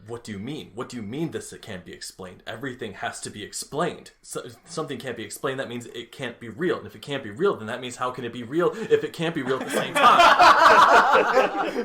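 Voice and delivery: overwhelmed Talbot. Shown as a demonstration. Talbot unable to explain things, overwhelmed and escalating. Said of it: "do Talbot when he is actually overwhelmed".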